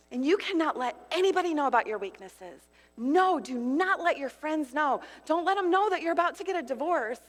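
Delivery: insistent, pressing voice of shame; accusing inner voice. Acted. Preacher voicing the lie that you must hide, insistent. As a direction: warn them off in a hard, urgent tone.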